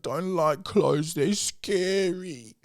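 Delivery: put-on high, slow little kid whine; toddler voice. Dad imitating toddler refusing clothes. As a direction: stretch it out like a small child.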